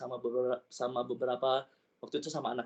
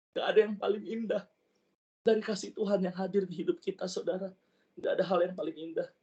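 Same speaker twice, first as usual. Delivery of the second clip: deeply moved; 4 semitones higher than usual. Real, not acted. Moved testimony after retold weeping.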